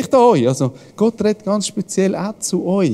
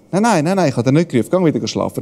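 Eli's answer; 6 semitones lower, faster than usual. Retold or imitated. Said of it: "Und der Eli sagt".

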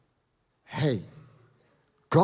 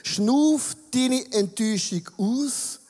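slow breathing-out demo; 3 semitones higher, slower than usual. Shown as a demonstration. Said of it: "mega einfache Übung".

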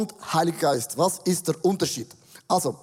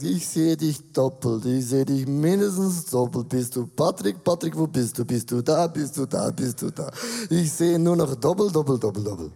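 put-on lower, slurred drunk confusion; 4 semitones lower than usual. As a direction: slur it, lost and seeing double. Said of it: "Wenn man betrunken ist".

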